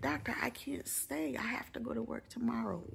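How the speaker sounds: high whispered plea; a retold hushed plea; pleading whisper. Pleading with the doctor to leave.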